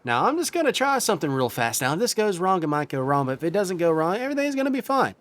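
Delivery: eager crewman. Acted. Healer answering the captain's call. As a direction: rush in ready to help. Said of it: "he looks over to you like".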